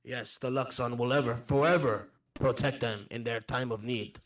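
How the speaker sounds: put-on earnest wanderer with a foreign accent; accented traveller. Recalling loyal goblin friends, accented traveller. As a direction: speak fondly as a foreign traveller.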